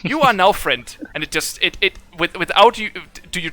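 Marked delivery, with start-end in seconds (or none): 0.0-1.0 file the name away like a computer; robot logging a name. Acted. Warforged declares friendship.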